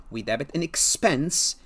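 teacher hits the word expense for the class; stress on expense. Shown as a demonstration. Teacher stresses expense while explaining accruals to students. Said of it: "I'm emphasizing the word expense".

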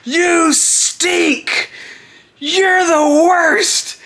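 put-on high, drawn-out heckling kid voice; little kid. Little kid heckling the fallen wrestler, imitated high jeer. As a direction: imitate a small fan jeering. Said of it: "this little kid".

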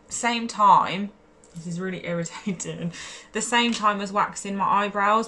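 hiccups jolting the words; laughing through hiccups. Real, not acted. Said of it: "Here we go again, more hiccups".

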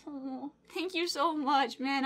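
slow, choked-up gratitude; real weepy, drawn-out thanks; tearful thanks. Real, not acted. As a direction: thank them through rising tears. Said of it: "I'm going to cry".

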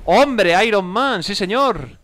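delighted recognition. Real, not acted. Gamer spotting Iron Man on screen, delighted.

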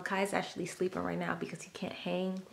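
soft whisper. Real, not acted. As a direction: hush so he stays asleep. Partner sleeping nearby.

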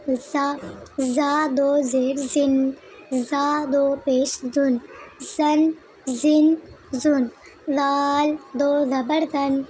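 measured spelling-out, letter then harakat then sound; Qaida recitation drill. Shown as a demonstration. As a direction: recite each syllable as for a child's lesson. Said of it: "इसकी हिज्जे और आवाज़ दोनों तरीके से".

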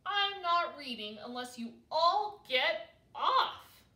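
slow, loud, emphatic demand; shouting. A narrator's reading. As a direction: shout it word by word, fed up. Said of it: "shouted Baby Owl".

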